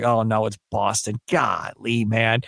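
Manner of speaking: low, deflated groan of dread; dejected. Retold or imitated. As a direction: sink into mock disappointment. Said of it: "I was like".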